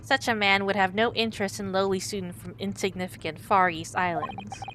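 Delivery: proud Russian sailor introducing himself. Acted.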